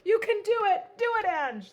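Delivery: loud high cheer to yourself; self cheer. Real, not acted. Crafter cheering herself on at the card. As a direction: pump yourself up. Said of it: "cheering herself on".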